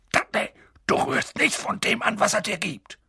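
hoch und scharf fauchend. A narrator's reading. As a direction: faucht seinen Sohn drohend an. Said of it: "Onkel Vernon fauchte ihn an". (Onkel Vernon faucht Dudley an, fauchend)

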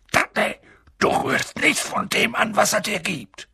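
high, strained snap at Dudley; angry hiss. A narrator's reading. Uncle forbids his son to touch the giant's food, angry hiss. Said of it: "Onkel Vernon fauchte ihn an".

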